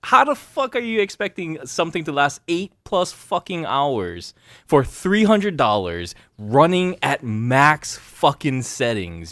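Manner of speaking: high, slow, whiny outraged ranting; internet troll voice. Pretend. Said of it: "Do the internet troll voice".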